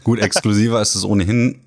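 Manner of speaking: scratchy throat from a cold; slightly hoarse, a bit sick. Real, not acted. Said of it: "So ein bisschen Kratzerhals". (heiser, leicht erkältet)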